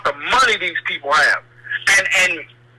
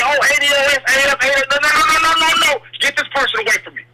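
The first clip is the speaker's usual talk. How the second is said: a higher, hurried string of mock protests; mock pleading agitators; 6 semitones higher, faster than usual. Caller imitating outside agitators trying to run back, mock pleading. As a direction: lightly mimic agitators in higher-pitched pleading.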